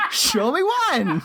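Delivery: high, drawn-out plea amid laughter; laughing plea. Real, not acted. Host repeating the absurd demand, helpless with laughter. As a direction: slowly wail it while cracking up.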